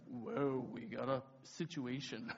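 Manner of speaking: slow, low, softened warning; low cautious aside. Retold or imitated. Co-leader halting the mob scene, low cautious aside. Lyndon's worried aside, first take.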